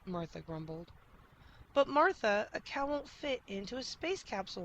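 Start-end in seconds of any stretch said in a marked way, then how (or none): 1.8-4.6 crying out. A narrator's reading. Rob pleading with his cow, crying out. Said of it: "Rob cried".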